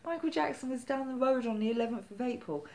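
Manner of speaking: retold insistence, starting high and fast; insistent pleading. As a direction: press them, lightly insisting they know. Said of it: "I was, like, so insistent".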